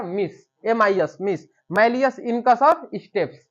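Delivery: slow, letter by letter, like a teacher drilling; slow spelled mnemonic. Shown as a demonstration. Teacher giving students the ossicle mnemonic, slow and clear. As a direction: spell out the memory trick slowly and clearly. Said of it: "याद करने का तरीका".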